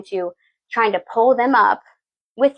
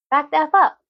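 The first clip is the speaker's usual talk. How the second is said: much higher, louder angry yell; cat's angry yell; 8 semitones higher, 3 dB louder than usual. Retold or imitated. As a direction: screech "Back the F up" like a hurt cat. Cat's energy tells you off.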